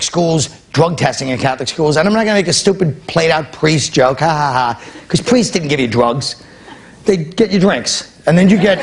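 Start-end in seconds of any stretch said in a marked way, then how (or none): 4.2-4.8 dry, fake "ha ha ha"; deadpan pretend chuckle; mock laugh. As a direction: feign laughing at a stale joke. Mocks a played-out joke's laugh.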